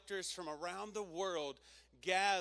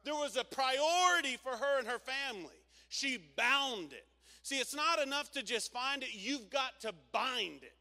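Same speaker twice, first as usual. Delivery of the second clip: loud, higher, slowing sermon peak; preaching at full force; 8 semitones higher, 7 dB louder than usual. Acted. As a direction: drive it home, stretching God is first.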